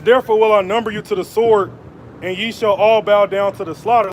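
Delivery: measured preaching cadence, weighty and deliberate; scripture reading. Acted. Preacher reading Isaiah to his viewers, solemn proclaiming. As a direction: proclaim the verses like a street preacher. Rereads the verse.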